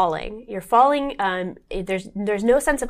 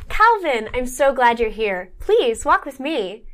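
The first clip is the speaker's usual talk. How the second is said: weird doctor voice; 3 semitones higher than usual. Acted. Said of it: "she's got a weird affectation".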